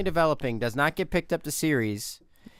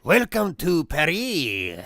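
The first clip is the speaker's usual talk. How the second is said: mock announcer; much slower than usual. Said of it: "move out of the country".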